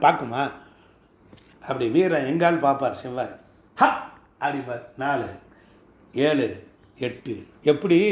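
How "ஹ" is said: short punchy "ha" exhale; mock warrior "ha!". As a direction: imitate a fighter's quick grunt. Acts out warrior Mars looking. (வீரனைப் போல "ஹ" என்ற சத்தம்)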